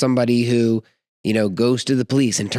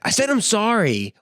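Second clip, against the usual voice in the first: put-on kid's grudging apology; 10 semitones higher than usual. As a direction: mimic a sulky kid forced to apologize. Imitates kids' insincere apology.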